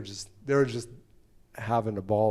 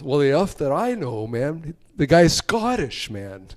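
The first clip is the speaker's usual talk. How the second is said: higher, louder, drawn-out mock exasperation; exasperated Alan; 4 semitones higher, 6 dB louder, slower than usual. Alan to the driver asking for translation, exasperated protest. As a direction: protest that you have no idea either. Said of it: "So I turn to Alan".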